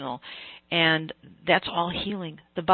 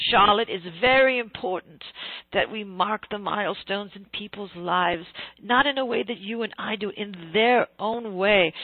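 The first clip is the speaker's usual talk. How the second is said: put-on Australian accent; 3 semitones higher than usual. Australian celebrant earnestly explaining milestones to Charlotte, Australian accent. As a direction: imitate an Australian man, stretching key words. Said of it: "I'm gonna do my Australian accent of him".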